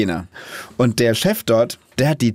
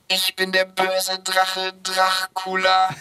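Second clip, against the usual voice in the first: slow, mechanical robot filter; 6 semitones higher, much slower than usual. Pretend. Voice app turns the kid's line into a slow robot. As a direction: turn it into a robot. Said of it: "klingt wie so ein Roboter".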